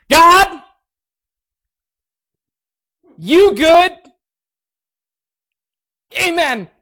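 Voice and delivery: high, loud, blurted prayer; awkward yell. Retold or imitated. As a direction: shout it out nervously. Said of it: "I don't know why I yelled".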